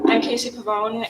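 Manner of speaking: speaking up for the room. Real, not acted. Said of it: "Can you speak louder".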